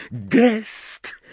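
very high enraged cry; furious shriek. Acted. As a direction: shriek the word in fury. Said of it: "wrzasnęła tak rozwścieczona".

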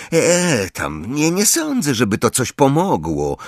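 hesitant, downcast doubt; mildly crestfallen boy; dejected. A narrator's reading. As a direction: dismiss the comfort glumly. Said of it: "powiedział Neville jeszcze bardziej przybity".

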